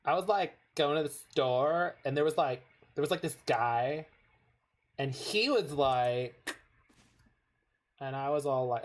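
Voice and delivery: mock valley-speak with rising likes dropped mid-sentence; lightly hammed-up California chatter; North American like-talk. Shown as a demonstration. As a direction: parody an American dropping like everywhere. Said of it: "you drop it in, like, the middle of sentences".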